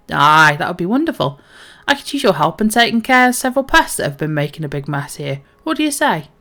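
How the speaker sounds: hearty dwarf, a hint of northern English; Dockmaster Woolen. Dwarf dockmaster asks the newcomer for help, hearty light role voice. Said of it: "go a little bit more northern".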